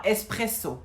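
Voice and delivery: "Espresso" said clearly, with no h before the E; teacher's careful "Espresso"; model pronunciation. Shown as a demonstration. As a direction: say "Espresso" for a pupil to repeat. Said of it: "Répète après moi".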